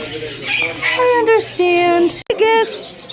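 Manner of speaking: drawn out slow and soothing; slow reassuring. Real, not acted. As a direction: stretch it out gently. Comforting quiet bird.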